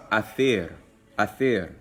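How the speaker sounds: athir spoken slowly and carefully; slow careful demo. Shown as a demonstration. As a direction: lay out athir syllable by syllable. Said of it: "I'm gonna go over it a little bit slowly".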